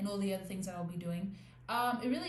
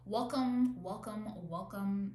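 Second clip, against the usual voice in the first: imitating Z X; 3 dB louder, slower than usual. Shown as a demonstration. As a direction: welcome repeated in a borrowed celebrity host voice. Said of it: "No, no, no. I cannot be her".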